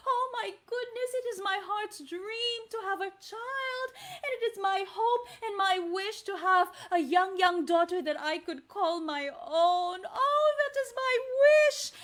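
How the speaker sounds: put-on mother longing for a child. Teacher playing the mother for the kids, yearning. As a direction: plead like a mother wishing for a baby. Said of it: "pretend to be the mother and say".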